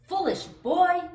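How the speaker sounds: high, slow screech of a giant vulture. A narrator's reading. Giant vulture screeching at the boy, high and slow. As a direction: screech it out like a huge bird of prey. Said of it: "screeched a giant vulture".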